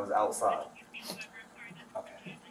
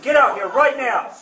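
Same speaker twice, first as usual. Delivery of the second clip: furious high shout; shouted surrender demands; 12 semitones higher, 11 dB louder than usual. Real, not acted. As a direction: yell the command at full force. Police confront armed man.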